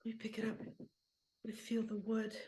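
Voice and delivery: soft, reverent murmur; hushed reverence. Acted. Old player picks up the beloved bat, hushed reverence. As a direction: marvel quietly over a treasure.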